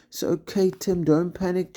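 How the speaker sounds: high call down the cliff. A narrator's reading. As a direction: reassure from a distance. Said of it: "Jake called down".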